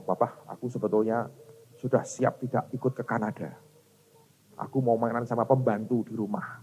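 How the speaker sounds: softly voiced child, low-key; lightly acted soft-spoken kid; imitating his child. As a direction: quietly mimic a child telling Papa. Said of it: "ini bahasanya dia, saya tirukan".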